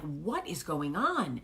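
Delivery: slow, stretched question with pitch swooping up; retold exasperated "what is happening"; exasperated disbelief. Mother reacting to screaming kids upstairs, exasperated disbelief.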